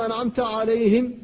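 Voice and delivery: عليهم with a breathy, voiceless ه; whispered ha. Shown as a demonstration. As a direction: correct عليهم, ه unvoiced. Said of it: "فتقول".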